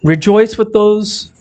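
measured reading with long pauses between phrases; unhurried scripture reading, letting each phrase rest. Real, not acted. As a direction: read the verse slowly, phrase by phrase. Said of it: "I'm gonna read it slower".

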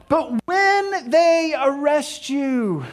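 "when" drawn out long and high; stress on when. Acted. Jesus warning disciples of arrest, long stress on "when". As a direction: stretch "when" out very slowly before going on. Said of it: "you said when".

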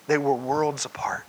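hushed, dropping to a whisper. Acted. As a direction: whisper the words for effect. Dramatic point about disciples.

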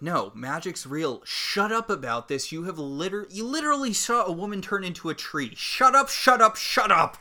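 exasperated rant building to loud shouts; overplayed exasperation. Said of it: "I think you're overplaying".

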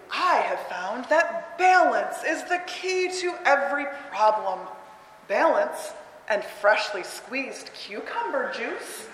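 slow, measured wise voice; calm auntie. Acted. Teacher reading Auntie Junip to kids, slow and calm. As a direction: hand out advice slowly, like a sage aunt.

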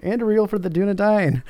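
high, ringing war cry; rally the defenders with the sword's name; battle cry. Retold or imitated. Reader voicing Aragorn's battle cry, high. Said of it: "cried Aragorn".

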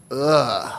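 brief grossed-out groan; groan of disgust. Real, not acted. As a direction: wince aloud at a gruesome detail. Reacts to leg blown off.

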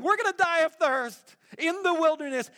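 a melodramatic complaint about thirst; the grumbling crowd, whining at Moses. Retold or imitated. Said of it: "here they are saying".

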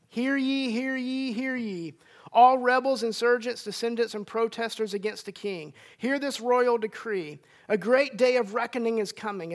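booming royal decree; royal herald. Retold or imitated. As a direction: proclaim it like a town crier. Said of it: "proclamation from a king's herald might sound like".

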